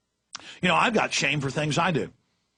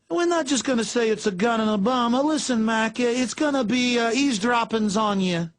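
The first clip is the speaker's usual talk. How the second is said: gangster voice; 5 semitones higher than usual. Retold or imitated. Mocking future gangster cops.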